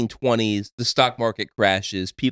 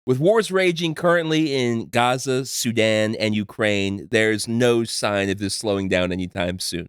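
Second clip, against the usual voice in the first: announcer voice. Acted. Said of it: "I love your announcer voice".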